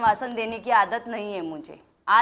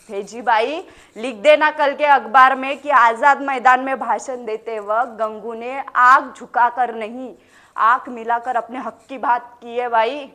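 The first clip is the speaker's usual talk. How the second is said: forceful, projected public statement; defiant proclamation; 5 dB louder than usual. Acted. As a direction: announce it boldly for the record. Defiant closing message for newspaper.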